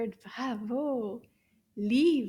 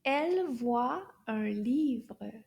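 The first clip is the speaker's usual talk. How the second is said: slow repetition; slower than usual. Shown as a demonstration.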